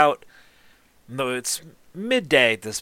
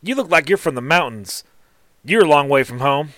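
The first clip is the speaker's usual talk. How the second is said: higher and louder, a folksy female gnome; gnome smith's voice; 4 semitones higher, 5 dB louder than usual. Acted. Gnome smith sizing up the mountain gnome, higher and louder. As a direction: greet him with a twang, pitched up.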